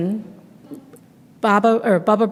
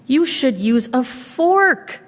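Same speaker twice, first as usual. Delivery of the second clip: put-on a higher, sweet old granny voice; old woman welcoming a guest at the door, higher and sweet; old grandmother voice; 5 semitones higher, slower than usual. Baba chides bear's manners.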